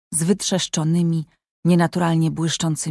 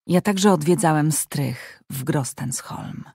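gentle; 3 dB quieter than usual. Acted. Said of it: "odparł Tarjaj łagodnie".

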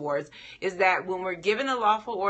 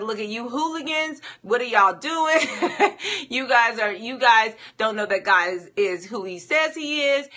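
mock scolding with a laugh, louder; scolding Moses; 4 semitones higher, 5 dB louder than usual. Moses scolding the people at the rock, mock exasperated. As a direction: playfully berate the hooligans. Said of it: "Moses calls the people rebels".

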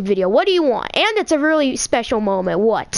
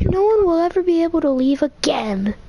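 Goat Mom voice; 4 semitones higher than usual. Acted. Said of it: "I can't voice characters in Undertale".

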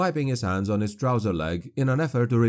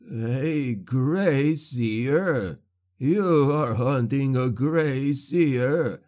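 mocking sorcerer; 2 semitones higher, slower than usual. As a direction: savour the threat, drawing it out. Sorcerer mocks the hunter.

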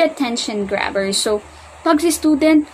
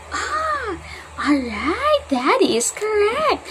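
excited praise; 9 semitones higher, 3 dB quieter, much slower than usual. Shown as a demonstration. Teacher praising demo.

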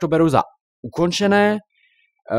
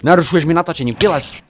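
scolding; 4 semitones higher, 4 dB louder than usual. Real, not acted. Scolding the spider.

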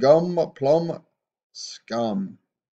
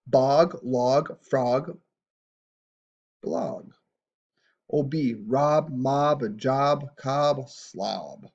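louder phonics calling; loud read-along; 4 dB louder, much slower than usual. Shown as a demonstration. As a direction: call out each word for the kids. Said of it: "Try and say these with me".

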